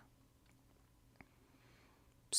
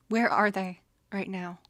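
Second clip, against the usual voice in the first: louder, demanding where they are; angry demand; 8 dB louder than usual. Acted. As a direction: snap the question out, furious. Anger at the offenders rising.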